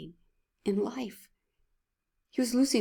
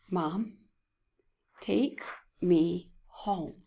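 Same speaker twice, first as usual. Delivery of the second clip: slow, worn-out rasp, barely voiced; son's hoarse plea to his mother, slow and raspy; raspy whisper; much slower than usual. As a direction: retell a sick child's raspy plea slowly. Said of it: "with a raspy, whispering voice".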